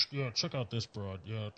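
crackly radio voice; tinny pocket radio. Retold or imitated. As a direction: talk like through a cheap radio. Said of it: "it sounds like they're crackling over a radio".

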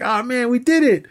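high-pitched gleeful mock villain, laughing between phrases; Lex Luthor. Podcaster acting out Lex celebrating his trap, mock gleeful squeal. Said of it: "Lex is like".

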